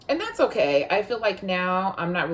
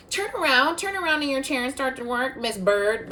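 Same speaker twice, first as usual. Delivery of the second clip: stern teacher; 9 semitones higher than usual. Retold or imitated. Teacher scolds her in class.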